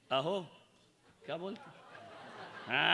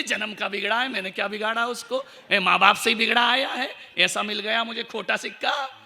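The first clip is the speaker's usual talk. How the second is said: louder, fed-up wife's rant; indignant complaint; 3 semitones higher, 7 dB louder than usual. Retold or imitated. Wife griping to the monk about her spoiled husband, loud and fed up. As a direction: huff it out like a wronged wife.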